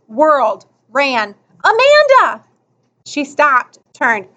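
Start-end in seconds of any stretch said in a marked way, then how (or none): 1.6-2.4 high, urgent shout after someone; calling out. Acted. Boy calling as she runs for the bell, urgent. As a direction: cry out the name, pitch leaping up.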